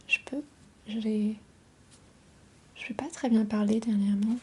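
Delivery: voix enrouée par un rhume; voix rauque. Real, not acted. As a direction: chuchoter avec la gorge prise. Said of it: "J'ai une voix un peu rauque". (voix cassée d'enrhumée)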